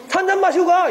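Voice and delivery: high, familiar invitation; imitating cheeky thirteen-year-old. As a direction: play a kid casually bossing an adult. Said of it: "열세 살짜리가 저한테". (어른에게 반말하는 아이 흉내)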